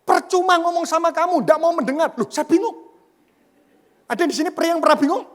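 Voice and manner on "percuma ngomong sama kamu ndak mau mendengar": a raised, higher mock complaint from the wife; husband quoting his annoyed wife in a higher voice; imitating angry wife. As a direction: play the wife snapping back, lightly. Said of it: "Istri saya tiba-tiba marah".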